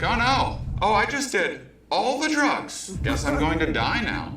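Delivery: high, loud hammed-up terror; mock panic. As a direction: squeal like the universe is collapsing on you. Panic during trip, retold.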